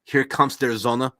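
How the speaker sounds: slow, "Sonne" with a German z sound; mock Northern German accent. Shown as a demonstration. Joking about Northern Germany: slow mock German accent. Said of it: "if you're from Northern Germany".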